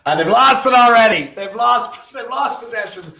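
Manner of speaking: high, loud laughing disbelief. Real, not acted. Sweden lose ball, laughing.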